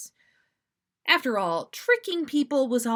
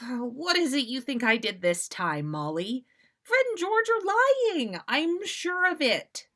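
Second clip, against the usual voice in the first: higher, louder indignant protest; defensive protest; 6 semitones higher, 4 dB louder than usual. Acted. Sirius protesting his innocence to Molly, indignant. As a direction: insist the twins are lying.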